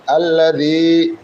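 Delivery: slow আল্লাযী with tongue lightly between the teeth. Shown as a demonstration. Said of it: "দুই দাঁতের মাঝখানে জিহ্বাটাকে হালকা চেপে ধরে".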